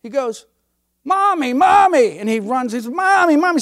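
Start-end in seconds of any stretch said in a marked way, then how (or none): 1.0-2.2 put-on high, slow excited child crying Mommy; a little boy running to his mother, calling out high. Little boy running to mommy, high excited call. 2.9-3.6 put-on a little boy running to his mother, calling out high; child calling out. Little boy running to mommy, high excited call.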